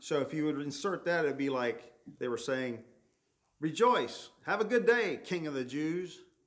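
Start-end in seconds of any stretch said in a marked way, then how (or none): 3.6-6.2 put-on high, jeering, sarcastic, mocking voice. Speaker retelling how Jesus was mocked: acting out a mocking tone. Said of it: "Mocking tone".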